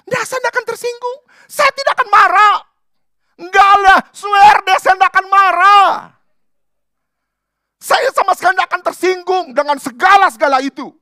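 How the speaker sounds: hammed-up huffy denial; mock indignant protest. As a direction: insist too hard that you're not offended. Mock insisting he is not offended.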